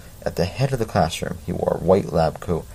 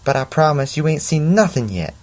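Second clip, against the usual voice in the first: stronger Southern; 7 semitones higher than usual. Acted. Teacher teasing the class after a fireball, in a fuller Southern accent. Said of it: "that sounds more Southern".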